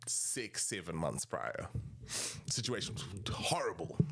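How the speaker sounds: soft, breathy confession; hushed confession. Real, not acted. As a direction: drop to a near whisper. Confiding about being broke.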